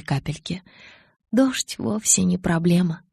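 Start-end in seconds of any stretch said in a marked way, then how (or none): 1.3-3.0 slow, mild grumble; grumbling. Acted. Bella grumbles to Edward about the rain, slow mild grumble. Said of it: "проворчала я".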